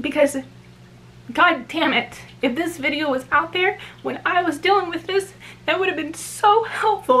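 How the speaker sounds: tearful speech, crying through the words. Explaining why this video needs to be made, crying while talking. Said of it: "I'm sorry that I'm crying".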